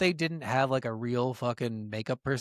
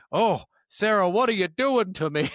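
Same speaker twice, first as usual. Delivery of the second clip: hammed-up moaning line, louder; quoting bad sex line; 6 semitones higher, 4 dB louder than usual. Quoting the movie's worst sex line, hammed up. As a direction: overplay the cheesy passion. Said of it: "the line at this time is".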